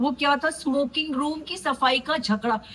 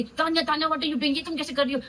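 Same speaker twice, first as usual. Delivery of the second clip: mock taunting; 5 semitones higher than usual. Mimicking Zeeshan's taunting.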